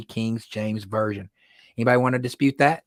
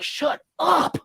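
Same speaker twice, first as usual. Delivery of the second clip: shocked plea. Retold or imitated. Retold plea to the cussing woman.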